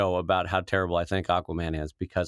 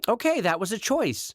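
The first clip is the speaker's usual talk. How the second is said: dry director voice; 10 semitones higher than usual. Retold or imitated. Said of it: "the director's like".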